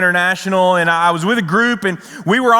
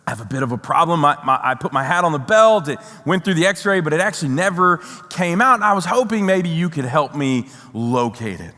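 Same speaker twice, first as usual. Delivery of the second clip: calm; 2 semitones lower than usual. Retold or imitated. Traveler asking airport agent for help finding his hat, calm. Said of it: "I just very calmly say".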